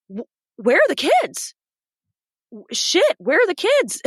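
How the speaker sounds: put-on suddenly realizing the kids are missing; panicked. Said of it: "and then I'm like".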